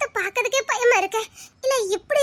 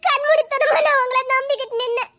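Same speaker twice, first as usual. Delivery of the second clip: choked-up heartbroken reproach; tearful accusation. Acted. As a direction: voice wet with tears, hurt and betrayed. Betrayed fiancée confronts him tearfully.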